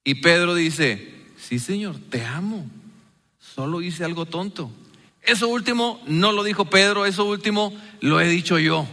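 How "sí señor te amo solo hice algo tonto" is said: ashamed answer. Acted. Peter answers after denying Jesus.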